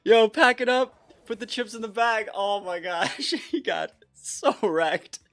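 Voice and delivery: high, loud, laughing shrieks of joy; shrieking jackpot winner. Real, not acted. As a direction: scream with joy over the win. Wins the game.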